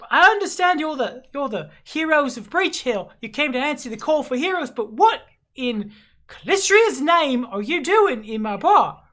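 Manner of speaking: high, loud, incredulous landlady; exasperated tavern owner. Acted. Tavern owner questioning a hero about her bar, exasperated. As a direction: demand answers in a high, swooping voice.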